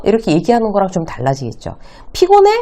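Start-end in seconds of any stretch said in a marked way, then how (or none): 2.1-2.5 피곤해 very high and louder, as a question; high-pitched demo of asking 피곤해; leading question. Shown as a demonstration. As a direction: toss out 피곤해 in a raised voice. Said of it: "이렇게 물어보면".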